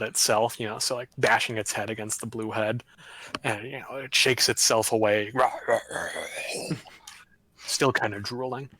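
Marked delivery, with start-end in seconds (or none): 5.3-7.1 imitated monster growl. Imitates head shaking itself away.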